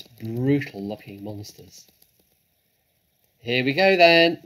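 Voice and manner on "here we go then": loud rising battle cry; shouted. A narrator's reading. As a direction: shout it out, climbing in pitch and volume. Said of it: "shouted Bean".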